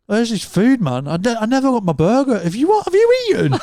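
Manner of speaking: put-on high, indignant drunk whine; high drunk complaint. Friend voicing his drunk mate demanding his food, high indignant whine. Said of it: "You're literally going".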